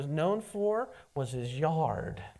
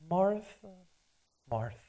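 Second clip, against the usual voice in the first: softer, tender call of her name; loving; 4 dB quieter than usual. Shown as a demonstration. Jesus speaking to anxious Martha with deep care. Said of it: "Deep care. Very loving rather than anger".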